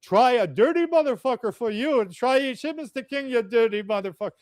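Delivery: teasing the priest back in his broken English; mocking his broken English. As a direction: egg him on in his own style. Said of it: "I'm egging him on".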